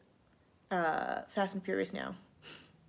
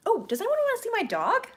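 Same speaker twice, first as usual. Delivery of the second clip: much higher, bubbly and eager; excited high offer; 14 semitones higher, 4 dB louder than usual. Real, not acted. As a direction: pitch up, thrilled to show the dog. Excited offer to show dog.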